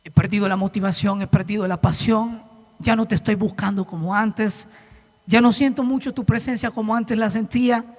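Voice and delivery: understated retold lament; sincere confession. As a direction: confess weariness to God quietly. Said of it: "le dije".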